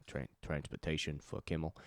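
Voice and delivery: lightly put-on Italian accent. Telling of the stepdad's job at Kimmel, light Italian accent. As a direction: slip into a slight Italian accent. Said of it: "put on an Italian accent".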